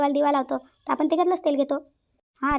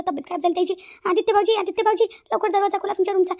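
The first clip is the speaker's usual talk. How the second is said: loud, higher calls through the house; urgent calling for help, louder and higher; 4 semitones higher, 4 dB louder than usual. Acted. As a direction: shout for the men to come quickly. Daughter-in-law calling men at night.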